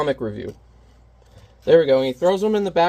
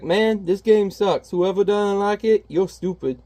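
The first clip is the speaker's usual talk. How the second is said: slow, sneering, a bit higher; lightly hammed sulky villain; 5 semitones higher, slower than usual. The bad guy trashes the game in a mild sulk. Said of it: "He's like".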